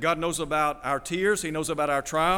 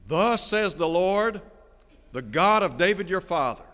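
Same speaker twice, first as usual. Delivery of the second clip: solemn proclamation; 3 semitones higher, 4 dB louder than usual. Acted. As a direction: proclaim it as a message from the Lord. Preacher voices God's message to Hezekiah.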